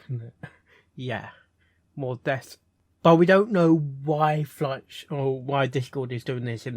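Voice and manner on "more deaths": Snape. Pretend. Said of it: "That sounds so much Snape".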